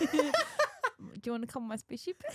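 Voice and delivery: put-on film-quote New Zealand accent. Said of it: "You got that from Corgi".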